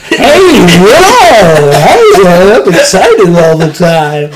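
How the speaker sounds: loud, high, stretched-out whoops; hammed-up overexcited teenager; mock excitable Zoomer. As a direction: shout as if thrilled by absolutely everything. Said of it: "of, like, a Zoomer".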